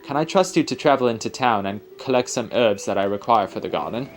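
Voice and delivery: put-on mild amateur British accent for an old guardian; hammed-up British accent, formal and careful. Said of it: "sorry about my terrible accent".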